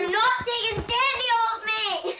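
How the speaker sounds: heated family shouting. Real, not acted. Child fights over teddy.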